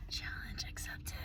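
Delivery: a soft, breathy "Challenge accepted"; hushed resolve; whispered. Shown as a demonstration. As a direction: whisper it like a secret vow.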